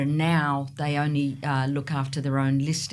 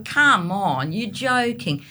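loud exasperated come on; mock exasperated; 4 semitones higher, 4 dB louder, slower than usual. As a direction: raise it, half joking. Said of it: "throw another one forward and go".

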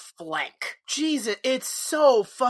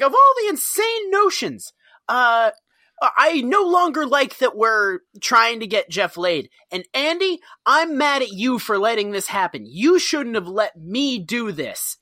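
hammed-up flustered scolding; lashing out; 3 dB louder than usual. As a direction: blame someone else in a huff. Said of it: "externalizing and lashing out".

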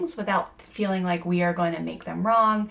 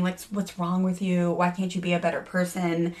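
moralizing. Retold or imitated.

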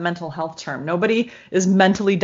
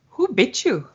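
higher-pitched questioning mom; concerned mom; 4 semitones higher than usual. Retold or imitated. Mom questioning her little girl, concerned. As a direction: ask it like a worried mother. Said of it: "the mom says".

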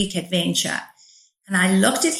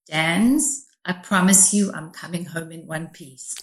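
understated imitation of a weak, broken voice; lightly voiced injured man, subdued; tiny broken voice; 3 semitones lower, 3 dB quieter than usual. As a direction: retell it a little low and soft, as if badly hurt. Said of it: "this tiny little broken voice said".

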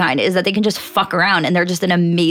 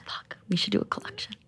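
whisper; 14 dB quieter than usual. Real, not acted. Conspiratorial aside about idea.

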